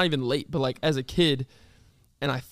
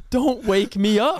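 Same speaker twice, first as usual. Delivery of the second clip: slow, loud, higher-pitched mock protest; angry; 6 semitones higher, 5 dB louder, slower than usual. Sleepy kid to parents on couch, angry protest. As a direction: act out an emphatic demand, drawn out. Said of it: "I used to get so angry".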